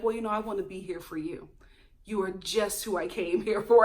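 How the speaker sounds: low, mock-sincere wooing; smooth suitor. Host imitating Chris swooping in on Katie, low and smooth. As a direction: imitate a man swooping in to comfort. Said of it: "swoop on in and be like".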